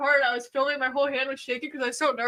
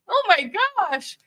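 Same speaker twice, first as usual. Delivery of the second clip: amazed gasp; 7 semitones higher, 3 dB louder than usual. Retold or imitated. Sees Bill mount the four-wheeler.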